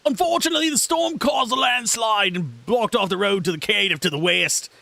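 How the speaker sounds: put-on Australian accent. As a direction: belt out the news like a brash Australian. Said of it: "I don't know why he's Australian".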